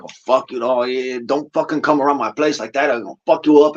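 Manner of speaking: lightly imitated Sureño accent, kept soft; Sureño street talk, quietly mimicked. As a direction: do a low-key LA Sureño accent. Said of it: "they all talk like this".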